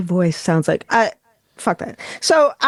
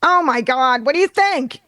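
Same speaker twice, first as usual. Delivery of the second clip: New York thing; 4 semitones higher than usual. Retold or imitated. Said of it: "I start doing the kinda this New York thing".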